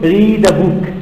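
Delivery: "read a book" with D starting "a"; linked pronunciation. Shown as a demonstration. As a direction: link "read a" into "rea-da". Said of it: "So the D is with the A".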